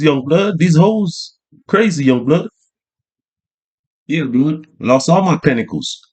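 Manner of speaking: lightly voiced old street hustler, telling his tale of woe; a hint of a worn-down OG swearing he got robbed. Lightly voiced OG warning a young man about women. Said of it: "O G was like".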